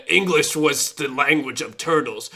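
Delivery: grandiose turtle voice, slowing down; talking turtle. Acted. Turtle tells a human who first spoke English, grandly. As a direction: declaim slowly as a proud turtle.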